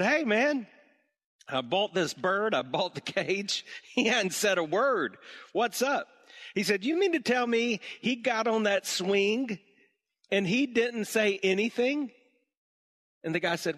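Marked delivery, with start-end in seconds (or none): 0.0-6.1 exasperated customer. Acted. Customer complains about silent bird. 6.8-12.1 mock disbelief. Shop owner feigns disbelief.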